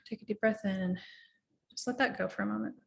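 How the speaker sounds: gentle, soft and quick; soft breathing cue. Acted. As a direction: ease them into a breath. Guides listener to breathe.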